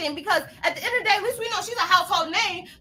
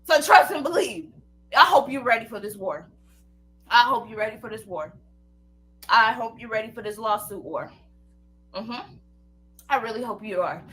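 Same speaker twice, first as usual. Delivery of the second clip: low threat; 10 semitones lower than usual. Real, not acted. Low menacing warning throughout.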